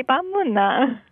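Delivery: short Busan dialect phrase, demonstrated; Busan accent. Shown as a demonstration. Local confirming the phrase for a learner, Busan accent. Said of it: "we say 밤문나".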